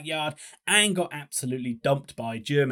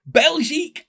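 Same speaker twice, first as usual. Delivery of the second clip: French pronunciation; 10 semitones higher, 6 dB louder, slower than usual. Pretend. French name for Belgium.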